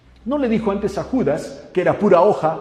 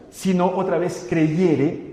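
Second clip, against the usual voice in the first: slow, with weight on "creyere"; deliberate stress on "creyere"; much slower than usual. Shown as a demonstration. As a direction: draw out "creyere" for emphasis. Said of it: "el énfasis es creer".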